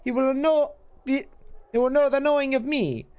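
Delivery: lightly voiced old crone, cryptic; a hint of a hissing witch, riddling; half-voiced hag speaking in riddles. GM voicing crone Ravel.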